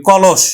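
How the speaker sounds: কলস with a sh sound at the end; teacher models কলস; pronunciation demo. Shown as a demonstration. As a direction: say কলস ending in sh. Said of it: "তালব্য স উচ্চারণ করি".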